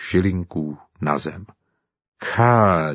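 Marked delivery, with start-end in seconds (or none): 2.2-2.9 a short amazed exclamation; surprised. Acted. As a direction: gasp it out in wonder. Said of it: "divil jsem se". (udivené zvolání)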